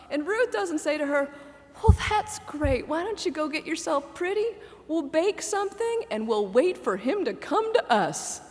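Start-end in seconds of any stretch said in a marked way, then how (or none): 1.8-8.4 put-on Southern accent. Naomi to Ruth, lightly Southern accented advice. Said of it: "I did it in a southern accent".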